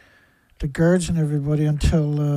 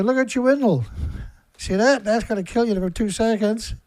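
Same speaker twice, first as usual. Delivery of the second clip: mock phone taunt; 3 semitones higher than usual. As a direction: gloat at him down the phone. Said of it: "Get him on the phone and say".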